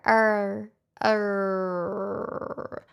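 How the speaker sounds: R tried with a rolled r; rolled r attempt. Shown as a demonstration. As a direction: trill the R, R sound with the tongue. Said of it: "How do I, while making an R".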